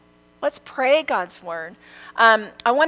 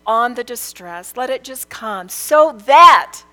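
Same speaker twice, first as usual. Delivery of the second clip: earnest prayer; 6 dB louder than usual. Retold or imitated. Mother praying distress on rebellious children, earnest plea. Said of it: "I have said to the Lord".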